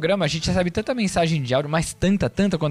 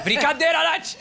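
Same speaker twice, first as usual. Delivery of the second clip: laughing tease; 8 semitones higher, slower than usual. Real, not acted. Teasing Nath after a jab.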